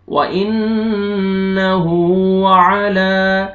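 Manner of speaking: व इन्नहु अला slow, lam held long; stretched lam. Shown as a demonstration. Teacher modelling a long vowel. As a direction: draw out अला slowly. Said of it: "लाम को भी आपने खींचना है".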